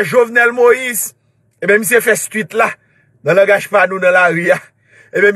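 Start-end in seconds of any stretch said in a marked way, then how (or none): 0.0-1.1 slow shouted name; calling out. Real, not acted. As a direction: call it out to the crowd.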